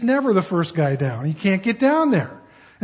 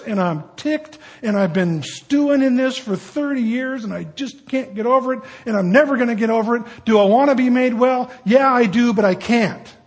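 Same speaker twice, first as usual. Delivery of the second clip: bitter griping; 4 semitones higher than usual. Acted. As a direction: vent every old wrong, then admit you can't let go. Man insisting he can't heal.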